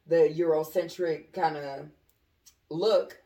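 groggy, hungover delivery; sluggish, searching for words hungover. Real, not acted. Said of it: "I'm hungover".

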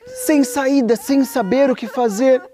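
sing-song sorrow, voice rising in tears; crying. A narrator's reading. The narrator tells how Ariel cried on the rock, tearfully. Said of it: "começou a chorar".

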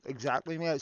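talking through a mouthful; words round a bite of food; mouth full. Real, not acted. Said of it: "I put something in my mouth there".

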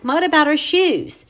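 loud, high call to stop her; urgent cry. Acted. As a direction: shout to catch the closing door. Mike calls out to the woman.

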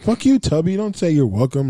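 high playful insult; mock outrage. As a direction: hurl it like a joke.

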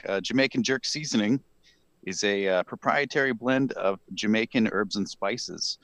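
halting ad read with hesitant pauses; trouble reading. Real, not acted. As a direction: stumble through the copy, pausing to find words. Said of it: "I'm just having trouble reading this".

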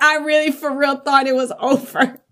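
half-laughing near-death confession; mock relief. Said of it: "You're like".

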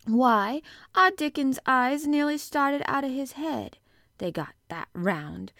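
excited Yorkshire maid, loud and high at first; Martha the excited maid. A narrator's reading. Maid tells how her brother's eyes popped, excited. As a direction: burst out, then stretch the last words in wonder.

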